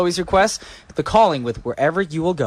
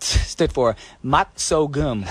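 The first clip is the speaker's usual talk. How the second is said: laughing; 3 semitones lower, much slower than usual. Real, not acted. Confessing funny mistake.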